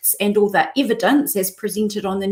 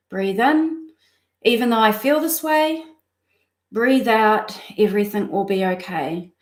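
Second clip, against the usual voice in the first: guided breathing mantra. Acted. Coach guiding live viewers through a breathing mantra, calm and soothing. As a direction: lead their breath in and out gently.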